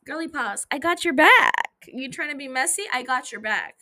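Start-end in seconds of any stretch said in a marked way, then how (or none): 0.7-1.7 big loud pledge of loyalty; rallying shout. Real, not acted. Hyping up the girlies.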